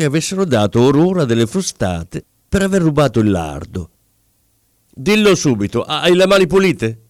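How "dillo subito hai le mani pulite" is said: raised, higher-pitched call across a distance; calling from afar. A narrator's reading. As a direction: shout the demand from far away. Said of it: "gli gridò ancora di lontano". (gridato da lontano)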